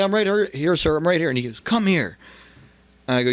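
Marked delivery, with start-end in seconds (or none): 0.0-1.3 high, hurried-sounding reply to a summons; anxious answer. Retold or imitated. Scared wrestler answering the boss's call, high and eager. 1.6-2.2 high-pitched, imperious call over; commanding summons. Retold or imitated. Boss summoning the scared wrestler, sharp command.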